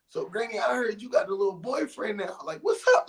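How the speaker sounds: swaggering big-dog tease; cocky teasing. Retold or imitated.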